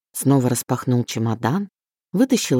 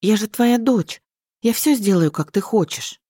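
robotic repeating; 7 semitones higher than usual. A narrator's reading. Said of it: "повторяешь, как робот".

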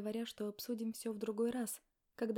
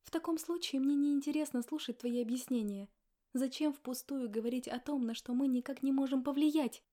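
louder, higher indignant reply; angry; 3 semitones higher, 6 dB louder than usual. Acted. Wife refusing to hear husband, angry and loud. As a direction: push his excuses away with anger.

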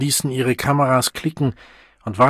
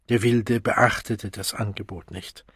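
ordinary delivery

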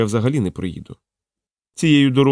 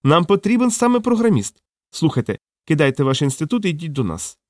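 higher, excited pitch, lightly voiced; eager recruiter; 6 semitones higher than usual. A narrator's reading. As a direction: grab the programmer at once, thrilled. (захоплений Горбоносий, вище)

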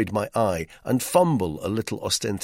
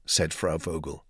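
ordinary delivery, nothing marked

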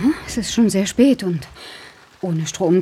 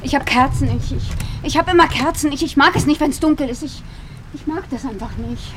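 higher, stammering and anxious; nervous stammer; 6 semitones higher than usual. Acted. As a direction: stumble over words, scared of the dark. Stammering fear in the dark.

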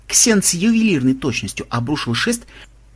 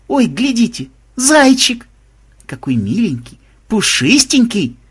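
high, cooing squeal; gushing delight; 8 semitones higher, 4 dB louder, slower than usual. A narrator's reading. Melisa cooing over a bunny, delighted high voice. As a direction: coo over something adorable, voice high.

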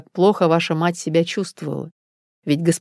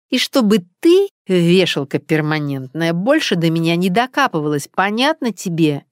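relishing each word. Acted. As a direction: savour humiliating her. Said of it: "цедила каждое слово с большим удовольствием". (с наслаждением цедит каждое слово)

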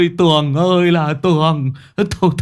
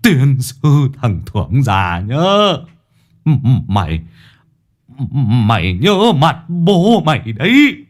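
higher, louder, slowed furious wailing curses; shrieking curses; 6 semitones higher, 3 dB louder than usual. Acted. Old Thấm sitting on the ground cursing Thưởng, shrieking wail. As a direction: rage and lament at the wrecker, dragging the words. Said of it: "chỉ tay rít lên".

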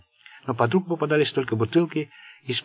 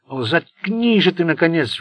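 higher, louder, slow hysterical squeal; shrieking on the edge of hysteria; 5 semitones higher, 5 dB louder than usual. A narrator's reading. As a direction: screech it near breaking. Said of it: "взвизгнул Сеймур".

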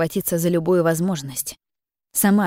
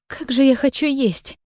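hungry exclamation; 6 semitones higher than usual. Acted. Hungry outburst.

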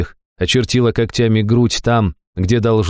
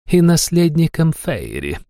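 eager; 8 semitones higher than usual. A narrator's reading. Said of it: "воодушевлённо подхватила демонесса".

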